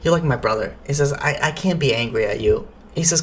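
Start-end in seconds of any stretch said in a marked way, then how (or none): 0.0-0.8 low-pitched, gentle retold reassurance; pitying. Forgiving a friend who lost everything, pitying. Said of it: "felt pity for his friend". 1.1-2.7 low, mildly gentle forgiveness; pitying. Retold or imitated. Shmuel forgiving his old friend, pitying. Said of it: "felt pity for his friend".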